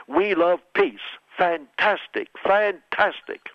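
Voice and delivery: beam like a showman president; hammed-up Trump; mock Trump.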